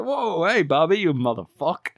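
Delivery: high, loud cheery hello; mock excited greeting. Retelling the film, the group hails Bobby with a loud cheer. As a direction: greet him like an old pal. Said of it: "And they go".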